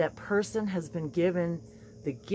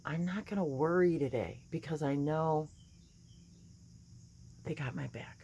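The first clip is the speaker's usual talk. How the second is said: calm affirmation; 7 dB quieter than usual. Pretend. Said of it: "start my day simply by saying".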